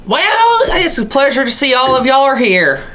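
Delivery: lightly voiced jovial king; a hint of a welcoming king. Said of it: "says the king".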